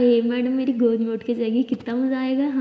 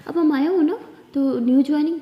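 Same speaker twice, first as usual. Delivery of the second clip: brisk manager; 4 semitones higher, 5 dB louder than usual. Acted. Manager greets new employee.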